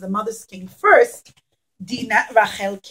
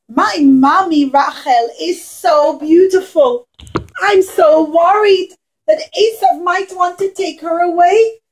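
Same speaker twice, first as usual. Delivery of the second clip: put-on worried child Yosef; 4 semitones higher, 4 dB louder than usual. Yosef puppet worried for mother.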